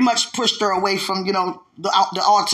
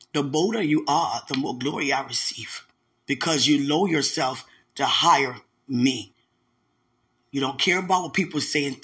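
solemn God; 4 semitones lower than usual. Retold or imitated. God's solemn rebuke after her laughing.

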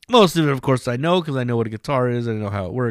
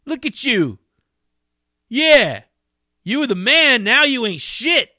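much higher, louder jeering repeat; taunting cameraman; 12 semitones higher, 4 dB louder than usual. Retold or imitated. Cameraman lighting up the homeless man, high jeering taunt. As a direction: push the insult harder. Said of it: "lighting him up verbally".

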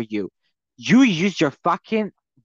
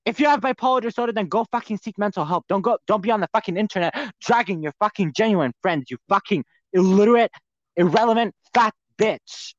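angry rant; 4 semitones higher than usual. Real, not acted. Ranting at Trisha over her accusation, furious. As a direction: tear into her, building fury.

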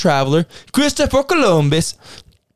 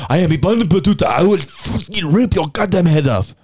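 rousing war chief; 3 semitones higher than usual. Acted. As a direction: growl it like a warlord. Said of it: "Sounds like he's a warlord. He should be like".

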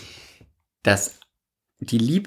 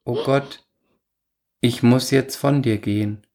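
ironic recital. Acted. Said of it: "Du schweifst wieder ab mit deinem Ton".

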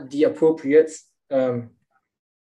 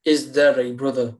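slow literal reading. Shown as a demonstration. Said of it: "Literally means".

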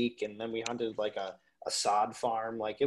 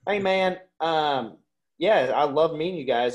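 a higher-pitched Southern buddy imitation, lightly done; Deep South drawl; 3 semitones higher, 4 dB louder than usual. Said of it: "he talks like this all the time".

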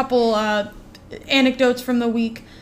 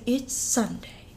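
utmost confidence; 6 dB quieter, slower than usual. Retold or imitated. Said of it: "With the utmost confidence".

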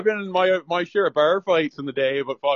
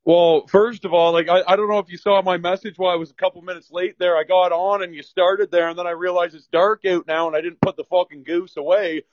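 a little winded after chasing; out of breath. Real, not acted. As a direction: talk while catching your breath. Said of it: "if I'm a little out of breath".

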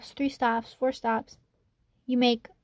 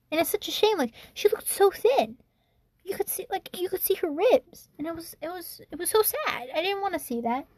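higher-pitched, pained recollection; saddened; 5 semitones higher than usual. Real, not acted. Telling of the thin homeless woman, saddened. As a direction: let the pity lift your voice.

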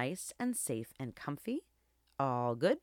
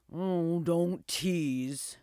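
slow, weary sigh of a reply; sighing old dog; much slower than usual. A narrator's reading. Old dog to the teasing wolf, sighing. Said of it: "sighed the old dog".

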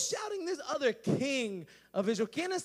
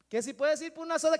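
louder and faster, repeating over the noise; raised repeat; 3 semitones higher, 6 dB louder, faster than usual. Acted. Repeating the question over the stadium crowd, raised. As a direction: say it again so they can hear.

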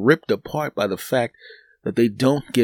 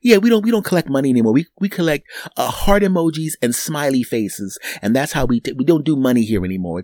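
higher, fast clerk voice; fast teller voice; 3 semitones higher than usual. Retold or imitated. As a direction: rattle it off like the teller. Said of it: "teller voice".

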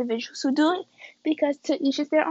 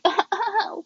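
short, higher awkward laugh; 9 semitones higher than usual. Retold or imitated. Girl answering a boy's proposition, awkward laugh. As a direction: laugh it off uneasily.

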